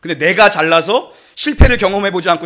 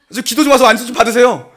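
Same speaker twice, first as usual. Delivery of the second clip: laughing; 4 semitones higher, 4 dB louder than usual. Real, not acted. Joking about own strong faith.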